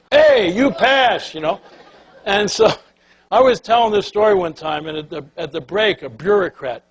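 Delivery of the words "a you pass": slow, drawn-out, higher and louder through a laugh; laughing punchline. Retold or imitated. Mimicking the clerk giving Dana the answer, laughing. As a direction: spell out the obvious answer with a chuckle.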